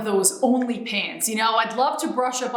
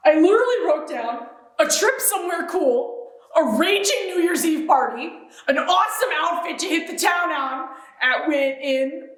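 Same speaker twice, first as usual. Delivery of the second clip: choked up; 3 semitones higher than usual. Acted. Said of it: "Got a little choked up there".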